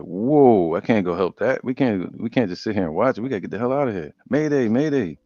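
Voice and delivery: frantic calls of mayday from fleeing traders; panicked merchants. Retold or imitated. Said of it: "they're like".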